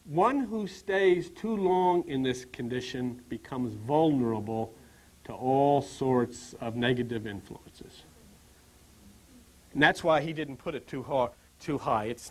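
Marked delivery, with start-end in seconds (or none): 0.0-8.0 slow, measured recital of a sage's words; unhurried, lower-pitched scriptural quotation; solemn quoted teaching. Retold or imitated. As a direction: quote the teaching slowly and deliberately. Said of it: "Shakyamuni Buddha says".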